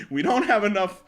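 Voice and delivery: loud, slow bitter shout; angry yelling. Acted. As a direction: yell back cruelly. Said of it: "yelling at him".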